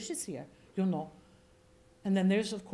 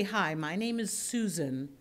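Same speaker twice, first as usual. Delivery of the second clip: base speaking voice; 4 dB quieter than usual. Shown as a demonstration. Coach showing actors their starting pitch, base voice. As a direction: introduce yourself on your natural base note. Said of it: "bass voice".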